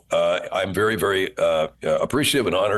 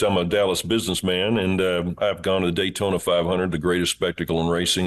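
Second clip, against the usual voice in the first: Steve Boesel voice. Acted. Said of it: "he talked like this".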